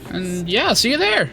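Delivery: high, bright upbeat video host; YouTuber voice. Acted. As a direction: hype it up like a YouTube outro. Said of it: "so fun to do my YouTuber voice again".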